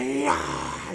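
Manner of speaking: high, drawn-out mock cheer; imitated crowd cheer. Audience reacting to the second showing, mock high cheer.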